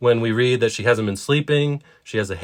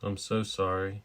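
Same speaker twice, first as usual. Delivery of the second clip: much softer, breathy hush; whisper; 3 semitones lower, 12 dB quieter than usual. Acted. Husband apologising to his wife in an embrace, whispered. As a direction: whisper it close into her ear. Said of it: "he whispers".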